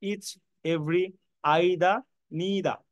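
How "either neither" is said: drawn-out "either" as EYE-da, then "neither" as NEE-da; careful pronunciation. Shown as a demonstration. English teacher dictating examples to students, careful EYE-da for "either", NEE-da for "neither". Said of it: "এই দুটো উচ্চারণ please ভুল করিয়েন না".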